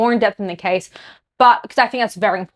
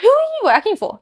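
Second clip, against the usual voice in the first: pointed demand; 10 semitones higher than usual. Real, not acted. Demanding answers from prime ministers.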